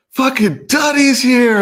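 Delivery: high, slow, loud party yell; retold triumphant shout. Partygoers in the backyard cheering his arrival, slow loud shout. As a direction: bellow it like the crowd's hero arriving. Crowd greets him at party.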